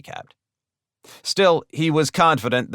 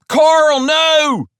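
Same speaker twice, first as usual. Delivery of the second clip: loud, high cry to stop someone; alarmed, full-voiced shout; urgent shout; 9 dB louder than usual. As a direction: yell it out to halt him. Robber rushes in to stop Carl.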